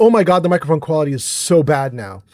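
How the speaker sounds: plain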